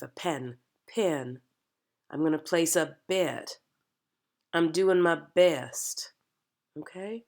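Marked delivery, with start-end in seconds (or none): 0.9-1.4 pen with a gliding pee-un vowel; diphthong in pen. Shown as a demonstration. Coach repeating the accented word, gliding vowel. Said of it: "we're gonna change that to". 2.1-6.1 bet and best with a gliding ee-uh vowel; diphthong in eh. Shown as a demonstration. Coach giving practice sentences in the accent, gliding vowels. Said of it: "we're gonna change that to".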